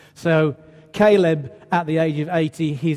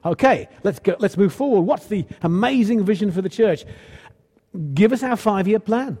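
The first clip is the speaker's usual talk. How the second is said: lightly mimicked keen church member, pitched up; mildly impatient eagerness; 4 semitones higher than usual. Churchgoer pressing leaders for a vision, mildly impatient. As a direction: rattle off brisk demands, a touch over-eager. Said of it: "very tempting at this stage to go".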